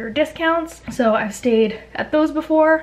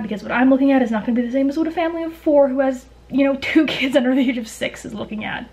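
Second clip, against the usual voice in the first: fast, breathless rush of words; running out of air from talking fast; out of breath. Real, not acted. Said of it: "I'm, like, out of breath from talking so fast".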